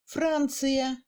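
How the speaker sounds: "Francia" with long A, brief I; clear A, brief I. Shown as a demonstration. Teacher showing stressed vowels, "Francia" with clear A. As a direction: hold the A in "Francia", pass quickly over the I. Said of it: "on entend plus nettement le A".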